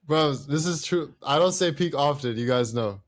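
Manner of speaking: British accent impression. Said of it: "tell him you impersonate him right now".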